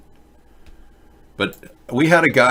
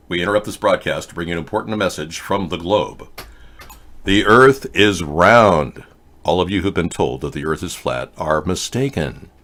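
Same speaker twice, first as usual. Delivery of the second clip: put-on old radio announcer; 3 semitones lower than usual. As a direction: announce it like a vintage newsreel. Fake broadcast about round earth.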